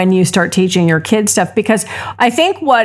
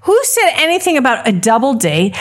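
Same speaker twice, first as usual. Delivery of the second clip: much higher, indignant retort; reliving the fury of the exchange; retold anger; 6 semitones higher than usual. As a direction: fire back at the other mom in disbelief. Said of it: "I was, I was so angry".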